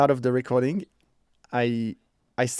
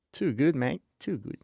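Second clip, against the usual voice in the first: put-on Australian accent; 4 dB quieter than usual. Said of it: "my accent gets so much".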